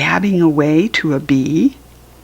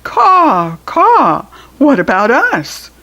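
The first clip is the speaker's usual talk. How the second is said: high, loud cawing crow voice; fussy crows; 7 semitones higher, 6 dB louder, slower than usual. Acted. Crows fussing at the cow, high loud caws. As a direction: caw like a squabbling crow. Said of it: "The crows made a fuss".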